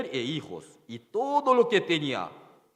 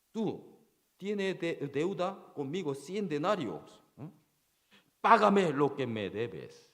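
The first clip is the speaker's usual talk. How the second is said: demanding payment; 2 semitones higher than usual. Retold or imitated. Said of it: "le ahogaba y diciendo".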